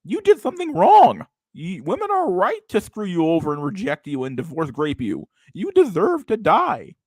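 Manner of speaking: mocking guru voice. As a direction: sneer out his doctrine. Mocking the self-help guru's views.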